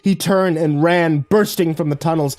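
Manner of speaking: high, loud breathless telling; rising panic narration. A narrator's reading. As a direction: push it up like fleeing in terror. Narrator builds panic of flight.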